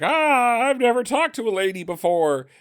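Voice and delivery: high, loud mock panic at meeting a lady; mock flustered Calvin. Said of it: "And he's like".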